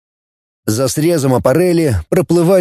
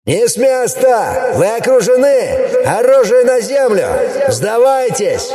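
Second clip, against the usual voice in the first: loud commanding voice; 10 semitones higher than usual. A narrator's reading. Troops surrounding the tower, booming surrender orders. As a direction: bellow the surrender orders over the steppe. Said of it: "разнёсся громкий голос".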